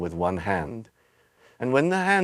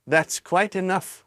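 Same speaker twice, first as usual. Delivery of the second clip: snapping grandmother; 8 semitones higher, slower than usual. Acted. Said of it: "snapped Grandma Josephine".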